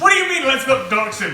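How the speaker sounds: high loud incredulous laugh. Real, not acted. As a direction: cry out in amused disbelief. Laughing outrage at slip.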